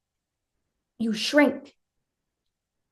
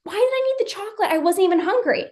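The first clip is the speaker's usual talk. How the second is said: high, quick, hushed bafflement; a confused little voice asking herself why; puzzled self-questioning; 5 semitones higher, 5 dB quieter, faster than usual. Retold or imitated. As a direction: wonder aloud in mild confusion, higher and softer. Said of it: "and you're like".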